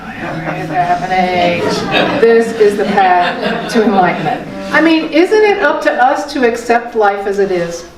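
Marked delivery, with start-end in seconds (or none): 0.0-4.5 softer, letting the words settle after a sigh; gentle contemplative echo of a teaching; soft, reflective repeat. Shown as a demonstration. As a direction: savor it quietly, like a mantra.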